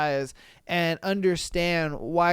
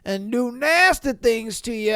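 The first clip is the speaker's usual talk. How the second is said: mock sleazy pickup line, a bit higher and rushed; creepy guy voice; 4 semitones higher than usual. Comedian mocks the truck guy's creepy come-on, sleazy mock voice. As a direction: play the creep hitting on her, hammed-up. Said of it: "He was just like".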